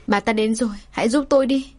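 rising, frightened plea for help; scared plea. Acted. Mistress panicking as the wife climbs the stairs, frightened plea. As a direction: beg in panic as the wife arrives. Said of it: "sợ hãi quay người".

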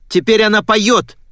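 high, loud insistent shout; crying out. A narrator's reading. Girl trying to convince her father, crying out. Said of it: "выкрикнула я".

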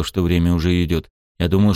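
ordinary delivery, nothing marked

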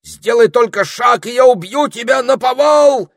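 high, loud threatening cry; wizard exclaiming. A narrator's reading. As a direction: bluster a threat at the top of the voice. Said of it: "воскликнул волшебник".

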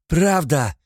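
high, loud cry of "Правда!"; shouted in his face. A narrator's reading. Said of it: "крикнула я тебе в лицо". (выкрикнуть «Правда!» в лицо)

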